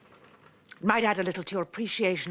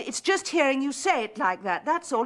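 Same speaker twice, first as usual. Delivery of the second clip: repeated louder to be heard; louder insistent repeat; 2 semitones higher than usual. Acted. Woman repeating herself louder to Freddie down the phone. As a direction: say it again, pushing through the line. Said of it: "I said".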